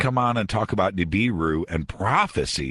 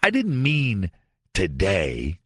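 backtracking doomsday prophet; 2 semitones higher, slower than usual. Acted. Radio host mocking a failed prophecy maker's excuses, backtracking. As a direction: stall and hedge like a caught-out prophet. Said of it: "says something like this".

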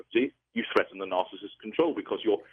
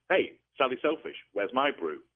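imitating a furious narcissist, starting high; a hint of an indignant husband snapping at his partner; mock angry outburst; 5 semitones higher than usual. Husband resentfully demanding his tea, in a mild mock anger. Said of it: "it makes the narcissist angry, furious".

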